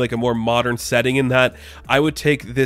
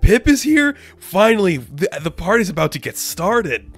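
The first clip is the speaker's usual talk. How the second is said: thrilled to see Pip, the party starts; excited bro shout; 6 semitones higher than usual. Retold or imitated. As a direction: Scourge cheering as Pip turns up. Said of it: "And Scourge is like".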